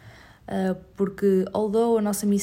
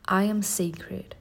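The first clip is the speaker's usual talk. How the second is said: slow affirmation; much slower than usual. Shown as a demonstration. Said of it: "Say it with me".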